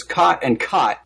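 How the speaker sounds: "caught" twice with one identical vowel; "caught" like "cot", no vowel difference; cot-caught merger. Shown as a demonstration. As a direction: say "caught" and "caught" exactly alike. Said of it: "I pronounce them the same way".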